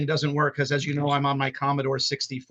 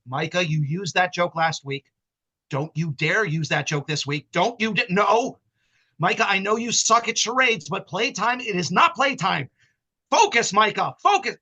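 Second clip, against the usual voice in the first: imitating stern owner; 2 semitones higher than usual. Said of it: "he said those same things to me".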